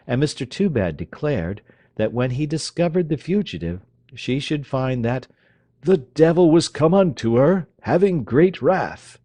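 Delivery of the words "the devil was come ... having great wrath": loud, high, slow thundering warning; wrathful father. Acted. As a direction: thunder it out like a prophet. Toobad quoting scripture wrathfully.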